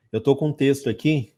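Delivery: ordinary talk, nothing marked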